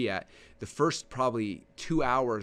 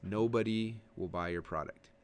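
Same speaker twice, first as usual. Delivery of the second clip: low, soft and slow, trailing off; slow, soft, low demo of a boring speaker; quiet dull delivery; 4 semitones lower, 6 dB quieter, slower than usual. Shown as a demonstration. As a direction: mumble it like a bored presenter. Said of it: "If you talk like this".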